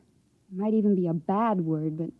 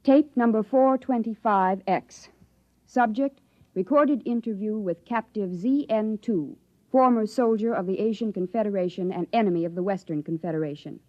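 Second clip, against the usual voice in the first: formal dictation. Acted. Formal dictation for official recording.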